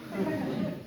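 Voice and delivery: high, breathless whispered question; whispered fear. Retold or imitated. Frightened patient asking himself, whispered. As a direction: whisper it up high, half joking. Silent fear in tense room.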